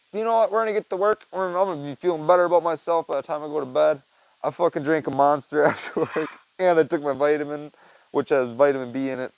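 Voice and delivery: firing himself up after an energy drink; jazzed. Real, not acted. Drywall worker hyped on a Monster, pumped up. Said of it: "jazzed right now".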